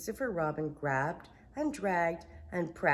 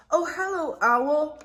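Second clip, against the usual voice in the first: a gentle, slightly dim bear; Pooh voice; 11 semitones higher, 8 dB louder than usual. Acted. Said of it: "Pooh greeted his friend".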